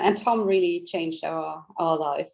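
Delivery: normal talking voice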